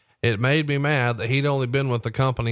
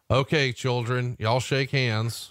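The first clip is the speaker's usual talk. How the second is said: imitating Vince; slower than usual. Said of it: "this being Vince's way of".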